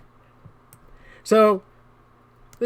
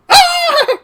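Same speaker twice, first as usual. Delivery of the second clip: laughing; 10 dB louder than usual. Real, not acted. Laughs and exclaims.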